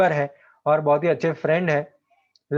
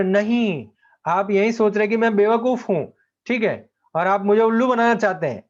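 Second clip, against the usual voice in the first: higher, heated accusation; angry protest; 3 semitones higher than usual. Acted. Lomov accuses the father of land grabbing, heated and higher. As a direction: hurl the accusation at him.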